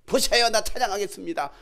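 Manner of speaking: loud, determined vow; defiant resolve. Retold or imitated. Believer vowing praise despite hardship, loud defiant resolve. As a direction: declare it stubbornly, building in force. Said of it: "오기가 발동돼가".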